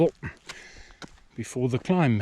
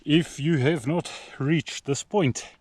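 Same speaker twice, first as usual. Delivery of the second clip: reading a sign; 5 semitones higher than usual. Retold or imitated. Reading warning sign aloud.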